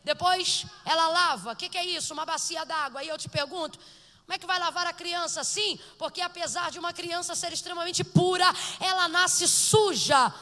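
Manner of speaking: loud, building sermon delivery that peaks in a shout; a preacher exhorting the church to pray at full volume; full-force preaching. Acted. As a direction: drive every line harder until it breaks into a shout.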